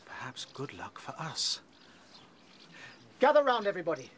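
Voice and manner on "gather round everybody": raised summoning call. Acted. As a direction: round them all up. Calling the warren together.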